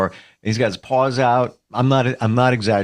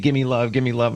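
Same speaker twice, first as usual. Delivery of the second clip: needy, clingy cat voice. Retelling coming home to his cat on the counter: voicing his cat. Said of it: "he wants to be all over me".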